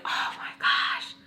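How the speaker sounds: slow, breath-only exclamation; whispered disbelief. Acted. Reacting to how relatable the show is, whispered disbelief.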